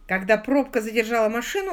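ordinary delivery, nothing marked

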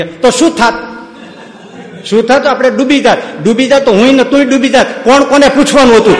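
blunt uncle. Retold or imitated. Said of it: "કાકા ઊભા થઈને કે".

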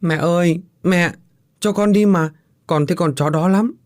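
put-on a boy about to cry, begging his mother; whimpering child. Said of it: "mếu máo".

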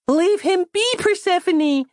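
put-on high, loud little girl giving an order; a small child commanding like a sage; wise-sounding command. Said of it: "commanded Christabel in a particularly wise-sounding voice".

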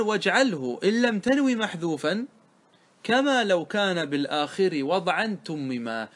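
measured, drawn-out verse recitation; slowing verse line from a teacher; reciting verse. Acted. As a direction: read out the grammar verse, stretching the endings.

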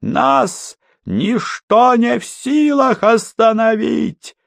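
high, slow maniacal declaration; unhinged villain. Acted. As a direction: proclaim it like a madman. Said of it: "смех маньяка".

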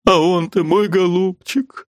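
put-on high, whining old mother's voice; fussy old lady. Mother scolding her daughter Liza, high and whining. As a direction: voice a complaining elderly lady. Марья Дмитриевна, lamenting to Liza.

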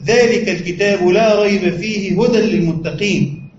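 unhurried reverent verse reading; Quran recitation. Shown as a demonstration. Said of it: "قال الله عز وجل".

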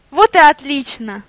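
loud glad exclamation; overjoyed pig cheering; delighted. A narrator's reading. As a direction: cheer it out happily. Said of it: "обрадовался Афоня".

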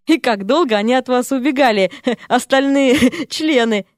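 mocking words through giggles; giggling. A narrator's reading. Chubby man mocks Серпентина, giggling. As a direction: tease her while laughing. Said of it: "захихикал".

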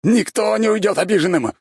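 high, loud roared command; furious shout. A narrator's reading. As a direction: silence them with a roar. Mad emperor raging.

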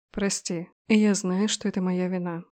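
тихо, с виной в голосе; тихое признание вины; сожаление. Acted. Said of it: "впервые в его голосе прозвучало что-то, кроме ярости. Сожаление". (генерал тихо кается перед невестой)

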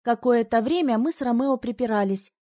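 ordinary delivery, nothing marked

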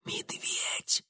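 hushed fearful whisper. A narrator's reading. Girl telling Mitya of the bear, whispered. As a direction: breathe the word in fear. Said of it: "прошептала".

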